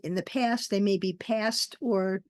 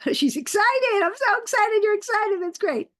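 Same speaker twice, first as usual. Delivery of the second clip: excited; 11 semitones higher, 5 dB louder than usual. Real, not acted. Reacting to excited participant.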